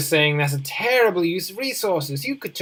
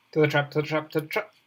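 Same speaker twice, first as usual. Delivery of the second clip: tripping over to the trap; fumbled tongue twister; much faster than usual. Shown as a demonstration. Gamer attempting a tongue twister, fumbling it. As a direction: rattle off to the trap and stumble. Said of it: "I failed at that really badly".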